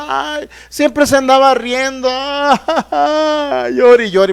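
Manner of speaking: a touch of mocking lament; mock wailing widows. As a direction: mimic the mourning widows with a hint of whine.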